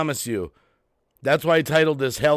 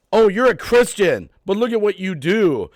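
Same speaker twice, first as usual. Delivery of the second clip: higher and louder sneering quote; mocking critics; 5 semitones higher, 4 dB louder than usual. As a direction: parody the accusers.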